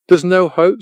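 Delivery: high, mild tearful cry; a touch of weeping in the words; girl despairing to her friends, lightly tearful. A narrator's reading. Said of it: "she said, weeping".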